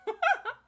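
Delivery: high sudden laugh; burst of laughter. Real, not acted. Player laughing at Alex's casual death threat, high sudden laugh. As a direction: crack up at the line. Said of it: "He said that very casually".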